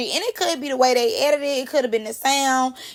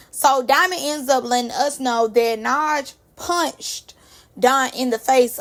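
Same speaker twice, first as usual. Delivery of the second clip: usual speaking voice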